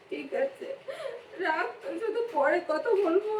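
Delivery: sniffling, holding back tears to hang up; tearful goodbye. Acted. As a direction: wrap up the call through sobs. Tearful end of confiding phone call.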